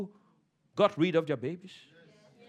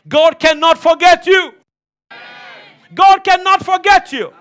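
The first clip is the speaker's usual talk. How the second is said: shouted take; 10 semitones higher, 16 dB louder than usual. Acted.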